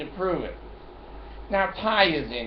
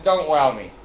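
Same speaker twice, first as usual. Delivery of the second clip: louder snapping comeback; snapping back at the company man, loud; sharp retort; 7 dB louder than usual. Retold or imitated. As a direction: cut him off hard. Snapping at the man's "well.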